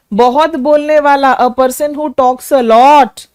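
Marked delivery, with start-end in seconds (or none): 1.4-3.3 slow dictation. Shown as a demonstration. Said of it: "teacher gives the meaning".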